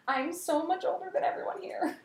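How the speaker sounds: high laughing whisper; whispered aside. Retold or imitated. Talking about young convention crowd, laughing whisper. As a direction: confide it with a giggle. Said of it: "and I'm like".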